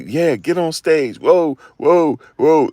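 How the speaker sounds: high, loud hyped-up crowd cheer; giddy cheering from the audience; mock crowd cheering. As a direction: whoop it up like a club crowd. Crowd cheering him on stage.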